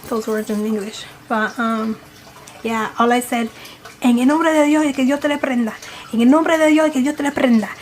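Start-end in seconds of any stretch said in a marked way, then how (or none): 4.0-7.7 fervent Spanish prayer. Retold or imitated. Praying at the demon to drive it away, fervent. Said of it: "but I said it in Spanish".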